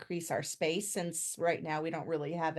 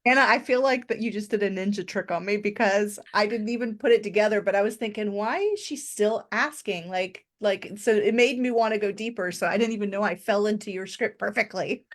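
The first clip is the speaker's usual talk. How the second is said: loud, high and animated; bursting with surprised delight; excited; 3 semitones higher, 6 dB louder than usual. Real, not acted. Excited realization of the trick.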